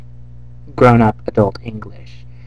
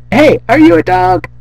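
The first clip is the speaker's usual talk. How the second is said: higher, louder mock yell; yelling dog; 6 semitones higher, 6 dB louder than usual. Brian yelling at the neighbor's dog at night. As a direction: call across the yard. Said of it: "Brian's just yelling".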